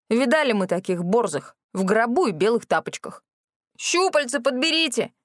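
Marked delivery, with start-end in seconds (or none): 3.8-5.1 higher mild mock howl. A narrator's reading. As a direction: wail it down from the roof. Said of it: "завыл Рэнди".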